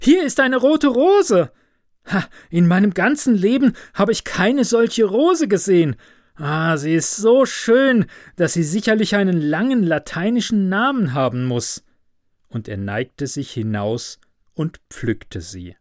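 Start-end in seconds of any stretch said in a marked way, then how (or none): 0.0-11.9 high, bright cry of glee; delighted student. A narrator's reading. Student at his window finding the rose, high delighted cry. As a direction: crow over the lucky find. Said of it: "rief er".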